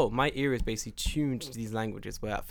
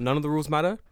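rising, louder, questioning disbelief; surprised realization; 3 semitones higher, 6 dB louder, much faster than usual. Acted. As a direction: ask it as a dawning realization. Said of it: "you get higher up and you realize".

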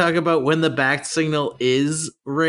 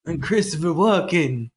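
Christopher Walken; 4 semitones higher than usual. Retold or imitated. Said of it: "You always kinda slip into a Mario".

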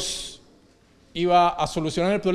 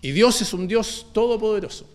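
said out full and higher; firm proclamation; 5 semitones higher than usual. Acted. Preacher to congregation, firm full-voiced proclamation. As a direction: declare it plainly to the church. Statement then quiet echo.

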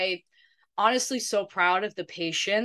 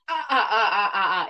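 mock staccato cackle; imitated cackling; 4 dB louder, much faster than usual. Friend describing their contagious laughter, imitated baboon cackle. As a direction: imitate a pack laughing uncontrollably. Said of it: "It sounds like a bunch of fucking baboons".

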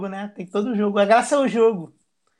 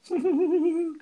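mock giggle; 11 semitones higher, 3 dB quieter than usual. Imitating the woman's giggle.

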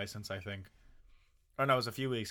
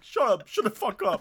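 high, loud snapping back; upset yell; 10 semitones higher, 8 dB louder than usual. Retold or imitated. Teen yelling back at mocking stranger, high loud snap. Retorting to the dude, near tears.

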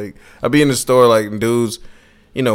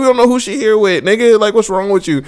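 mock pleading; 11 semitones higher than usual. Retelling how he scolded his friend at the rink, lightly higher. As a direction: talk your boy down. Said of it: "I'm like".

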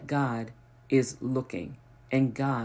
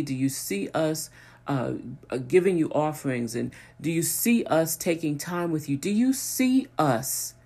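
anguished plea to God. Retold or imitated. Psalmist crying out to God, pleading and building. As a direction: beg God to see his people, building then breaking off. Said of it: "He, he's just like".

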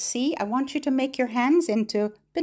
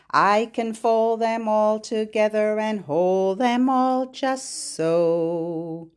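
put-on bouncy rhythmic chant for little kids; sing-song finger play; slower than usual. Teacher chants a finger rhyme to children, sing-song.

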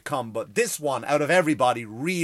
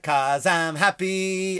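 happy dancer; 5 semitones higher, 5 dB louder, much slower than usual. Retold or imitated.

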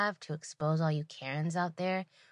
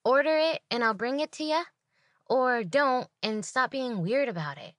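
imagined snappy retort; 7 semitones higher than usual. Retold or imitated.

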